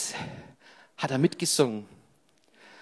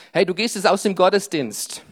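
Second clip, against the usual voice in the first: urgent; 2 semitones higher, 4 dB louder, faster than usual. Acted. Urgent direct address to congregation.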